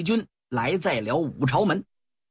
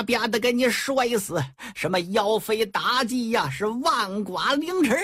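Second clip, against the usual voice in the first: cursing in the street; 4 semitones higher than usual. Acted. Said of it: "领头骂大街的".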